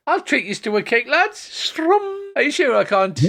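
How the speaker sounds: high, eager bard offering to play; Tarbin Tull voice. Acted. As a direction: pitch it up like a hopeful minstrel. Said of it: "Tarbin Tull, it's like".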